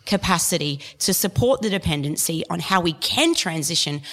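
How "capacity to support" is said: a touch of real anger; getting angry. Real, not acted. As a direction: make the case with rising, impassioned irritation. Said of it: "she's getting angry".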